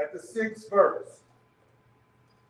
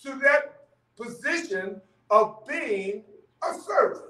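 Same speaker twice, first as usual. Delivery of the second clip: preaching emphasis; 3 semitones higher, slower than usual. Real, not acted. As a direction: preach it slowly and with force. Preacher building to congregation's amens.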